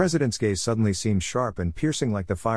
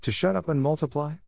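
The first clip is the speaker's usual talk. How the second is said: pitched higher, a mild narrated scream; rising to a scream; 6 semitones higher than usual. A narrator's reading. President rounding on her confessor, mild mock scream. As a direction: let the question climb toward a scream. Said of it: "her voice rose to a scream".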